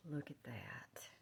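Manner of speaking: slow, very soft, low whisper. Real, not acted. Crafter showing viewers a pretty print, whispering. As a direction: draw it out in a hush. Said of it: "I don't know why I'm whispering".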